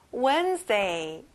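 Wednesday said as Wenz-day, the d not pronounced; silent d. Shown as a demonstration. Teacher showing kids Wednesday without the d sound. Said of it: "D 발음은 안 나요".

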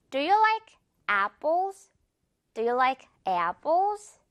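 very slow teacher's question, apples with a stretched A; slow demo with e-ah in apples; slow model sentence. Shown as a demonstration. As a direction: model "Do you like apples" word by word, slowly. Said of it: "문장으로 연습해볼까요".

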